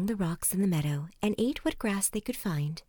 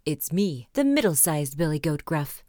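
lower, medium-sized billy goat; middle-sized goat voice; 4 semitones lower, 5 dB louder than usual. A narrator's reading. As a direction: answer as a middling goat, neither tiny nor huge. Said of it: "in his middle-sized voice".

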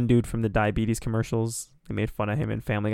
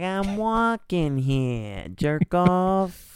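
put-on slow, higher old-timey New York accent; 7 semitones higher, much slower than usual. Old dude in a jumpsuit yelling at traffic, slow, in a hammed-up New York accent. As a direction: lean into a gruff New York street accent. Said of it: "that accent".

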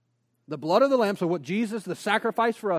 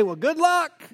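mock brush-off; 8 semitones higher, slower than usual. Mock dismissal after "throw us to the wolves.

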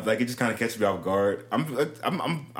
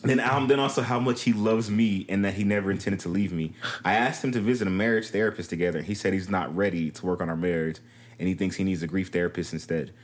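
low, even letter-reading voice; reading aloud; 5 semitones lower than usual. Acted. Co-host reading a troubled wife's letter, read aloud.

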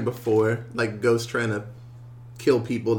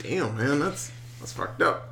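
stunned reaction; 9 dB quieter than usual. Retold or imitated. Retelling own stunned reaction.

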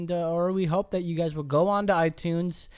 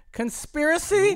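mock conspiracy voice; 12 semitones higher than usual. Mock dramatic reading.

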